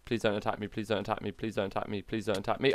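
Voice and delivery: hushed, low pleading chant; nervous pleading. Real, not acted. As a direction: repeat it softly like an anxious mantra. Nervously spawning mob, repeated plea.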